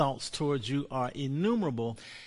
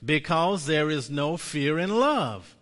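slow proclaimed confession; 4 semitones higher, 4 dB louder, slower than usual. Shown as a demonstration. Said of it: "Say this with me".

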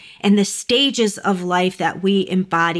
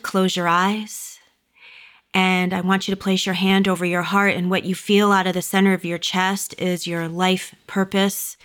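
calm grounding exercise. Acted. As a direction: guide them gently into stillness.

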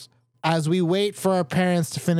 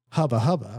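leering hubba hubba; 7 semitones lower than usual. Shown as a demonstration. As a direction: say it with a sleazy leer. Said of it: "see, that's sexual".

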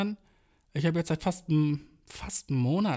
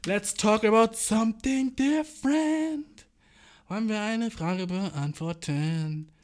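gym bro; 4 semitones higher, 3 dB louder, much slower than usual. Pretend. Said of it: "gym bro".

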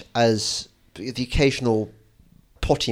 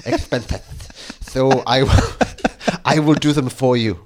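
put-on Spanish accent. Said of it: "I can't do Spanish accent".

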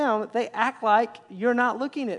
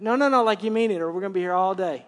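insistent father; 4 dB louder, faster than usual. Retold or imitated. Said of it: "I make sure on a regular basis".

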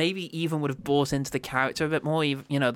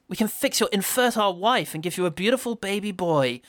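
hammed-up proclamation; 7 semitones higher, 3 dB louder than usual. Bargaining with McDowell, hammed-up triumphant proclamation. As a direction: announce it grandly, rising high and loud. Acted grand plea from film.

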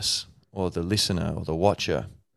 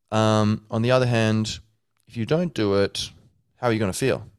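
higher, louder, measured advisor's voice; wise honesty figure; 4 semitones higher, 3 dB louder than usual. Retold or imitated. Honesty as a suited advisor reasoning with Jamie, hammed-up. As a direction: weigh it up for him like a patient mentor. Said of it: "tall black dude in a suit with glasses".

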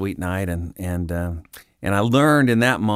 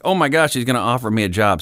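excited; 3 semitones higher, faster than usual. Retold or imitated. Excited thought at job hint.

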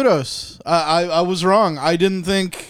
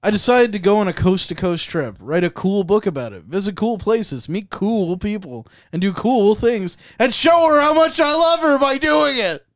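breathy fat-guy voice. Acted. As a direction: read as a laboured caricature, swelling at the end. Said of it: "You got the breathing down".

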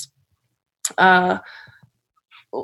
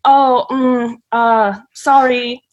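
fake foreigner sorry; 3 semitones higher, much slower than usual. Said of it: "just be like".

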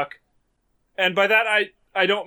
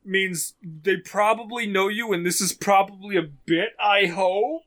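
laughing through the story; breaking into giggles mid-sentence; 3 semitones higher, 3 dB louder than usual. Real, not acted. Cracking up retelling the scene.

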